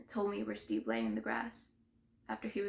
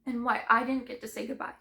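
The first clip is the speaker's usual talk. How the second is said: anguish easing down from a shout; pained regret; 4 dB louder than usual. Acted. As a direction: still raised, but hurting more than raging. Outburst subsides into personal regret.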